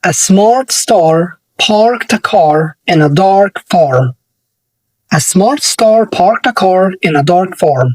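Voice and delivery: the tongue twister said very slowly; very slow, clear tongue twister. Shown as a demonstration. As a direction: crawl through the tongue twister word by word. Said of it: "tongue twister".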